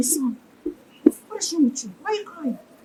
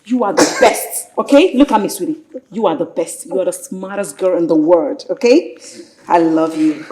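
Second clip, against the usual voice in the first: tender comfort; 5 semitones lower than usual. Acted. Mother comforts crying daughter.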